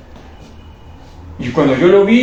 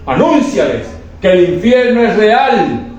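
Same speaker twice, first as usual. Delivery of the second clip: slow, higher, swelling command; slow proclamation climbing higher; rising proclamation; 5 semitones higher, slower than usual. Retold or imitated. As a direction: build the urgency of the message. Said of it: "la voz del Espíritu Santo que me dijo".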